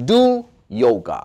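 slow, clear English model line; teacher pronunciation model; slow model reading. Shown as a demonstration. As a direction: read it out slowly for learners. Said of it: "자, 요가를 하다".

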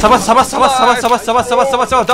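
excited. Real, not acted. Teammate gets the kill.

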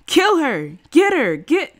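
high, loud bloodthirsty yelling; mob shout. A narrator's reading. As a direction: whip up the lynch mob. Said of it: "the people were shouting".

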